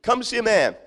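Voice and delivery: calling neighbours to come see; excited Samaritan woman calling out. Retold or imitated. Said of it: "and she said".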